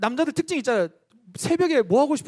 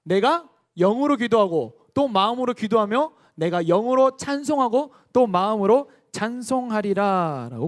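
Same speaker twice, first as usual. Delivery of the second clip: slow, measured reading of scripture; solemn unison scripture reading. Acted. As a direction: read the verse aloud with the congregation. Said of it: "함께 읽어볼까요".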